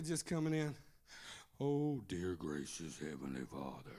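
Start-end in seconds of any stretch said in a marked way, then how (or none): 1.6-3.9 much lower, softer, put-on reverent tone; mock the phony churchy prayer; fake pious prayer voice. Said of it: "if we change our voice".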